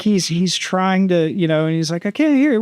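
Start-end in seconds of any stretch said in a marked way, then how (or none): 2.0-2.6 lightly put-on bad Russian accent; higher mock Russian pilot voice; imitating the Russian pilot, half-hearted accent. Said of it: "I'm just my terrible accent".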